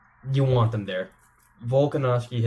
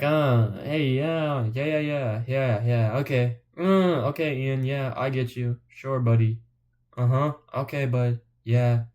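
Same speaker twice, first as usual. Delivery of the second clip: mock-polite brush-off of an unwanted guest; awkward placating; slower than usual. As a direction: humor him with drawn-out, noncommittal agreement. Party guests politely humoring Ian.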